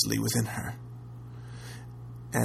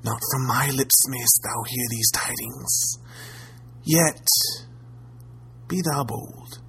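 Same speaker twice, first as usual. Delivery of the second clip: put-on ominous old crone. Crone speaks slowly, ominously.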